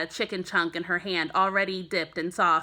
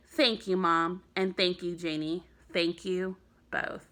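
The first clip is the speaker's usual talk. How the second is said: softer, fading thank-you; quiet so as not to startle; 3 semitones lower, 5 dB quieter than usual. Acted. Boy thanking Mom and sister softly beside sleeping skunk. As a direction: hush it for the sleeping kit. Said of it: "would never startle his kit like that".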